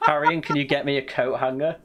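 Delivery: quoting through laughter; giggling out the friend's plea; laughing while quoting. Retold or imitated. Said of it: "comes out saying".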